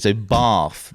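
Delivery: "bath" as "bahrth", long vowel; posh "bath". Shown as a demonstration. Explaining posh extra letters, "bath" said "bahrth". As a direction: stretch "bath" as if it held an R. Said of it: "throws in an extra letter when it's not needed".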